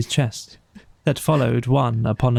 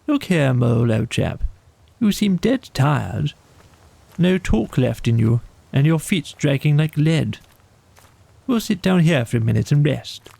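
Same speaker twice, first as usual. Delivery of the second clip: kindly; 3 semitones higher than usual. Acted. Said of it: "he stopped and said kindly".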